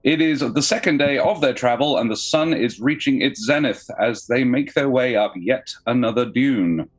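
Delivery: dramatic scene-setting narration; story narration. Acted. GM reads opening scene.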